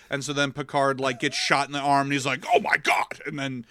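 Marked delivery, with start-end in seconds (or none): 2.5-3.2 breathy, unvoiced outcry; mock shock. Picard retold shot in the arm, mock shock. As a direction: gasp it out in pretend pain.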